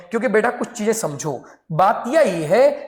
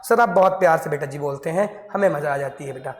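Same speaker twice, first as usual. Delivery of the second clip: mock student voice; 4 semitones lower, 3 dB quieter than usual. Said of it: "teacher voices student".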